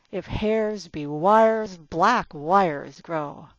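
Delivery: "If hairs be wires, black wires grow" hit word by word, loud and slow; heavy stresses. Shown as a demonstration. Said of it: "stressed and heavy".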